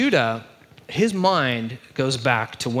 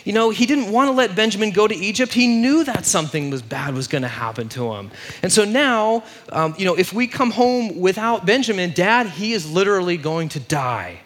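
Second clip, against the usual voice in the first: high, loud mock wail of dismay; hammed-up freak-out, easing down toward the end; 7 semitones higher, 4 dB louder than usual. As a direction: act out brothers in a panic, pitched way up. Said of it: "they're just freaking out".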